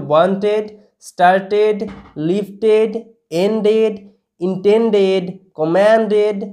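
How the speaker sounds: each word apart with a full "-ed" syllable, as in ওয়ান্টেড, কমান্ডেড; word-list pronunciation demo. Shown as a demonstration. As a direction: read স্টার্টেড, লিফটেড, এন্ডেড like a model list, pausing after each. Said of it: "শব্দগুলোকে আমি আরেকবার repeat করে দিচ্ছি". (ওয়ান্টেড থেকে কমান্ডেড, শেষে স্পষ্ট এড উচ্চারণ)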